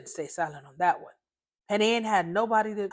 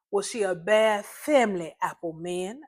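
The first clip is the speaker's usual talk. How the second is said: snapped back. Acted. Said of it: "I snapped back".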